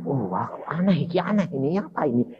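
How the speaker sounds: soft, wondering mutter, speeding up; retold hushed bafflement; puzzled self-talk. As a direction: marvel under your breath at something odd. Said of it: "aku terus gini".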